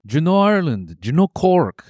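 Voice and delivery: high-pitched put-on Irish lilt; mock Irish accent. Joking with the co-host in a high mock Irish accent.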